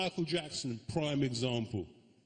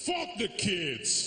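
Indian dad; 5 semitones higher, much slower than usual. Retold or imitated. Dad dismissing son.

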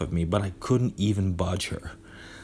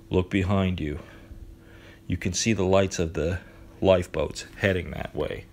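flat monotone instructions; even, emotionless. Acted. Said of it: "his usual monotone voice".

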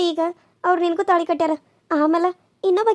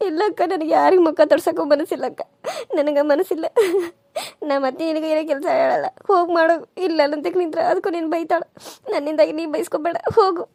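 tearful. Acted. Wife weeps over husband's remarriage.

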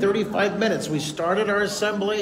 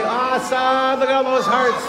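excited; 7 semitones higher than usual. Real, not acted. Delighted by flood of hearts.

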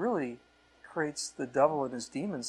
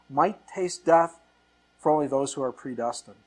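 mock misquote; 6 dB louder than usual. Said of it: "No, it says for everyone".

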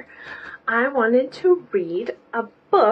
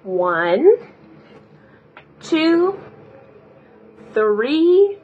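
counting along; 3 dB louder, much slower than usual. Shown as a demonstration. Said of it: "count to four with me".

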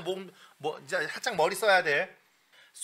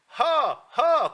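higher, louder "하" from that spot; high ha demo; 8 semitones higher, 4 dB louder, much slower than usual. Shown as a demonstration. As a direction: punch "하" up high. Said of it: "그 위치 기억해". (높은 위치에서 힘있게 "하")

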